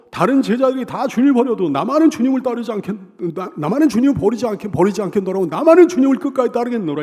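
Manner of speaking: loud, emphatic declaration of loyalty; bold boasting vow. Acted. Preacher voices Peter's vow to stay with the Lord, boasting. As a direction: vow it loudly, full of confidence. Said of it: "이렇게 호언장담을 했어요".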